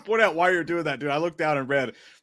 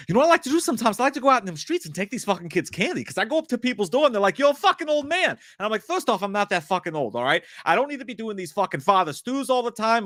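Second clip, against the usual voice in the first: lightly voiced cocky tough guy, a bit higher; brash tough-guy bit, slightly raised pitch; Mark Wahlberg; 4 semitones higher than usual. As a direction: ham up a swaggering aging actor. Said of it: "Can Slender Man and Marky Mark talk".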